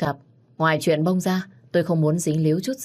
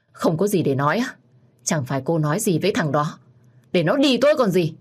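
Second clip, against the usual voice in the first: put-on a drunk man yelling accusations at her; drunk angry shout. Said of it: "hét lớn". (hét lớn giận dữ, cao dần)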